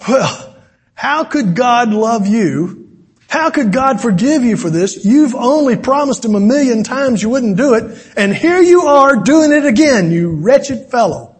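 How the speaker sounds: taunting, high-pitched tone.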